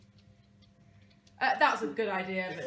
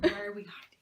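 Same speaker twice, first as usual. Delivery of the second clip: hushed secret whisper; conspiratorial whisper while hiding a book. Real, not acted. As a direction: whisper so she can't hear.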